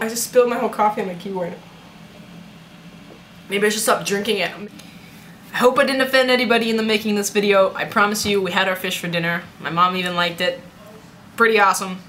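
lightly put-on southern accent; casual southern accent, hint of Australian. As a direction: sign off to viewers in a southern accent. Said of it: "I'm gonna talk in an accent".

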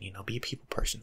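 ordinary talk

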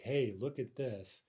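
slow, emphatic "Hey, look at this"; emphatic pointing. Shown as a demonstration. Showing someone something, emphatic. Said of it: "in a very emphatic way".

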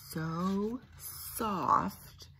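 soft hushed whisper. Acted. Parent showing the soft moss, whispered. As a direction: hush so no one wakes. Sleepy chick scene.

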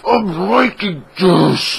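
high, slow, drawn-out delight; pleased. Retold or imitated. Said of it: "I'm like".

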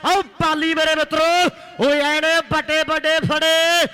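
fast, excited live commentary; frantic rural sports commentary. Real, not acted. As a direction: call the raid as it happens. Live kabaddi play-by-play.

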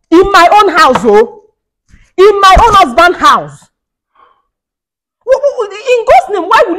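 high, loud, slow protest; loud outrage. Acted. Wife protesting to her husband about his mother, loud. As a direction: cry it out indignantly.

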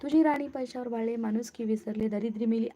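ordinary delivery

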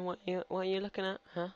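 playfully challenging, pitch lifted; mock-indignant telling-off; mock confrontation. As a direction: square up to someone cheeky, half in jest. Mock challenge to a game character.

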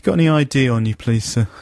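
brisk jobsworth request, a touch fast; lightly played officious constable; smug cop voice. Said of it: "So this guy says".

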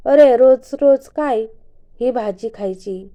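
whiny complaint. Acted. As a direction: drag it out like a fed-up kid. Shivani complains about food.

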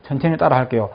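usual speaking voice

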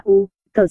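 "U, tờ" as separate syllables; split into syllables. Shown as a demonstration. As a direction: sound out "U, tờ" piece by piece. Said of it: "chia vần và đọc là". (đọc "U, tờ" tách từng vần)

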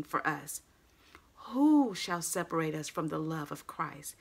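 slow, weighty scripture reading. Acted. Preacher reading Romans to the congregation, solemn and slow. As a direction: read the passage with solemn weight. Reads scripture aloud in church.

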